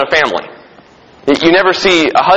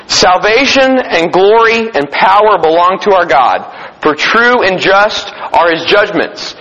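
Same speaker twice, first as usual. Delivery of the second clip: slow, raised proclamation; scripture reading; 3 semitones higher than usual. Acted. Preacher voices heaven's praise to the congregation, scripture proclamation. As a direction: proclaim the verse deliberately.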